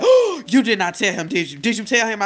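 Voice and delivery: half-laughing, teasing disbelief. Retold or imitated. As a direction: laugh through the accusation. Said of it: "And she said".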